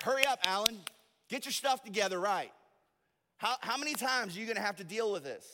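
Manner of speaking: loud, high, exasperated scolding; God, angrily impatient. Acted. Imagined God scolding the preacher to hurry up, angrily impatient. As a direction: act out an impatient telling-off. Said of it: "God's just angry".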